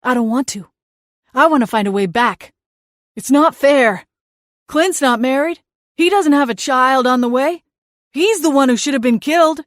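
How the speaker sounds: high, petulant whining dead brother; whiny ghost brother. Acted. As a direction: sulk like a wronged little brother. Seth whines again.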